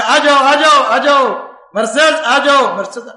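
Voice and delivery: loud beckoning call; a woman calling to her old friend in the night. Retold or imitated. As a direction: call him across the dark. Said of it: "آواز دی".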